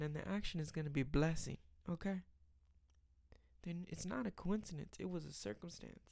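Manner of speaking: rising preacher cadence, building conviction. Acted. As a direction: preach it like Sunday sermon. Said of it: "I'm getting in my preacher voice".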